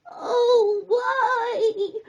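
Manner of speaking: a high crab voice with a laughing groan. A narrator's reading. Dizzy crab in the water groans, half laughing. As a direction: moan it like a dizzy little crab. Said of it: "Snippy groaned".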